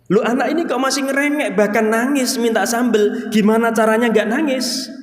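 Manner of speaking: put-on a parent fretting over a whining toddler; puzzled parent.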